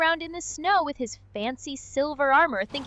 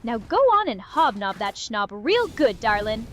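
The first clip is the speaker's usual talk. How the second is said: lightly put-on Southern drawl, slow start; a hint of an old Southern porch sitter; 2 semitones lower than usual. AI companion plays a porch-sitting Southern drawl on request. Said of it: "you want the real old school porch sitting southern drawl".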